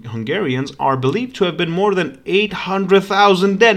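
steady read-aloud of a history passage; reading a text aloud. Acted. Streamer reading history to his viewers, steady read-aloud. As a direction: read it out like a documentary narrator.

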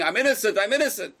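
high, loud imitated protest; retold scream. Teacher retelling the accused officer's plea, imitated scream. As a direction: imitate a condemned man crying out. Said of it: "the guy is screaming".

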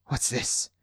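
breathy startled gasp; breathless gasp. Acted. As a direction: gasp it out in shock. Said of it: "he gasped breathlessly".

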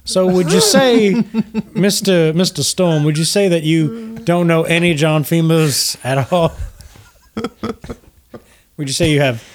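genteel host gushing with gratitude; gracious Lucian Flametongue. Acted. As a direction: greet them with courtly, lilting flattery. Lucian questions Mister Storm.

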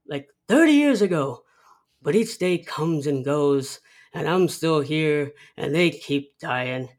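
hint of a crusty elder scoffing at the experts; Burgess Meredith. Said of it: "and he says".

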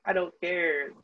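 put-on tearful protest; mock sobbing. Six-year-old refusing mom's comfort, mock sobbing. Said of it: "I was just, like, sobbing".

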